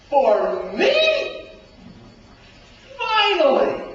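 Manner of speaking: loud, high burst of relief; hopeful cry. Acted. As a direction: throw up the word Finally.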